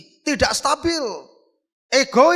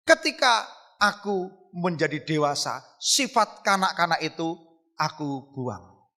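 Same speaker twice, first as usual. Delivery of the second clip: slow, lowered, deliberate scripture quote; solemn verse quotation; 6 semitones lower, slower than usual. Retold or imitated. Preacher quoting Paulus to the congregation, slow and solemn. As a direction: quote the apostle slowly, pausing between phrases.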